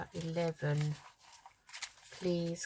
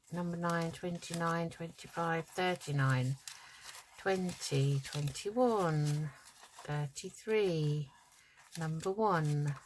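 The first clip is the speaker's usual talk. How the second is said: calling numbers like bingo; sing-song number calling; bingo caller. Pretend. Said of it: "I could be a bingo caller".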